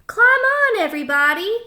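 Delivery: high, loud call to everyone; shout. A narrator's reading. Duck calling animals aboard, a high loud shout. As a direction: call them all aboard loudly. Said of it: "shouted Duck".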